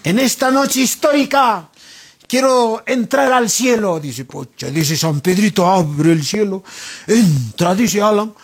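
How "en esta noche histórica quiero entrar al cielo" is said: higher-pitched, pompous request; mock solemn proclamation. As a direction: announce it grandly at the gates of heaven. Imita petición solemne a San Pedro. (petición solemne en broma)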